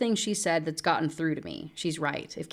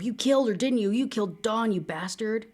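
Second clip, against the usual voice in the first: pitched up, accusing and sharp; angry accusation; 5 semitones higher than usual. Acted. Friend accuses Caleb of killing Dawn, angry. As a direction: hurl the accusation at him.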